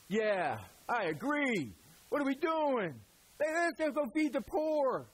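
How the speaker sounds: lightly hammed-up enthusiasm; imitating a keen follower; mock eager agreement. Pastor voices eager agreement.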